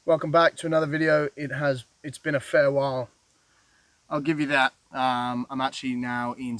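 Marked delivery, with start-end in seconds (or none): 0.0-4.7 echoing off rock walls; hollow, reverberant cave sound. Real, not acted. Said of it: "I'm in a cave".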